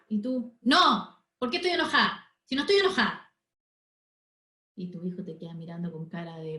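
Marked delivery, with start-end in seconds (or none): 0.6-3.3 put-on mother snapping at her child that she's not angry; irritated denial. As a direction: deny being angry while clearly annoyed. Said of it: "está diciendo que estás enojada".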